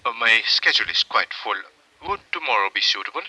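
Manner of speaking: put-on light Viennese accent, quick and polite; a gently Viennese psychiatrist, brisk and courteous. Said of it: "and charmingly Viennese".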